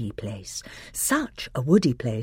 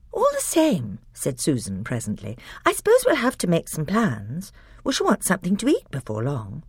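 put-on higher, practical girl's voice; sensible girl; 4 semitones higher than usual. Susan reminds the others they need plans, sensible. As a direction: sound sensible.

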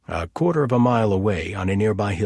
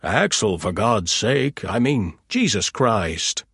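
exasperated outburst; 3 dB louder, slower than usual. Acted. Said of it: "exploded with a shout".

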